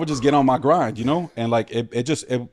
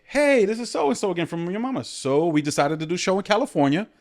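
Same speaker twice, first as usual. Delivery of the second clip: producer on phone; 7 semitones higher than usual. Retold or imitated. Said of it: "they're like".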